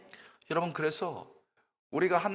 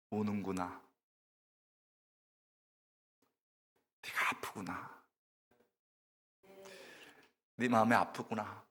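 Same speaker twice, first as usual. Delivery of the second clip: hushed tender reassurance; tender voice of God; 5 semitones lower, 9 dB quieter than usual. Acted. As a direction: speak gently as God to a crying woman. God comforts weeping Hannah.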